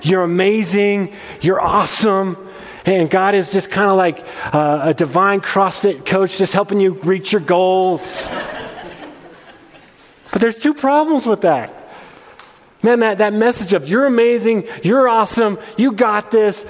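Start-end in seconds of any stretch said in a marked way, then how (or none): 0.0-8.3 bright, over-the-top cheerleading pastor; mock hype-man preacher, laughing at it; hype pastor parody. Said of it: "to be like". 13.9-16.6 higher, rising mock enthusiasm; hammed-up cheery praise; mocking feel-good hype.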